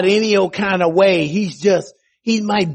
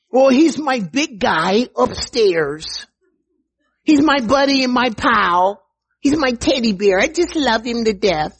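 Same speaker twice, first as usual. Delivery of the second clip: mocking casual believer; 5 semitones higher than usual.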